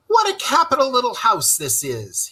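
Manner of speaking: high, bright call across the house; cheery calling out; called out cheerily. Acted. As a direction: call out to cheer his friend up. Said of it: "he called out cheerily".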